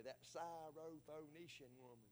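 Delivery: Syrophoenician in slow Southern country drawl, extra syllables; country pronunciation. Shown as a demonstration. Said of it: "I have to say it in country".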